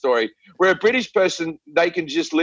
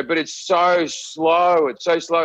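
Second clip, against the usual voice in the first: slow, dragged-out "so slow"; drawn-out complaint; slower than usual. Retold or imitated. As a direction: drag out the words as a mock complaint. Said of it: "people always say to me".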